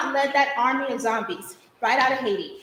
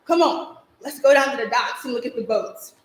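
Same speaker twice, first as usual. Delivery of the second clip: puffed-up invite; 3 dB louder than usual. Acted. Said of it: "pushed out his chest and said".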